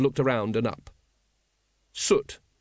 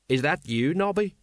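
anxious; 4 semitones higher than usual. Acted. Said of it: "said Sergeant Colon anxiously".

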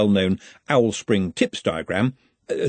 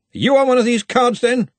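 gruff raised grunt; 14 semitones higher, 6 dB louder than usual. Acted. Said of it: "he grunted".

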